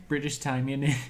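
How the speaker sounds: a clumsy mock British accent on "British time, in it"; mock British, lightly done; bad British accent. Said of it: "that was a terrible British accent".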